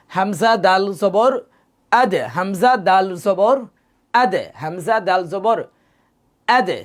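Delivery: slow Hamza দাল জবর আদ with দ bouncing; slow, rebound on the দ; qalqala echo. Shown as a demonstration. Teacher drilling qalqala on dal for the class. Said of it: "তাহলে প্রতিধ্বনি নেই".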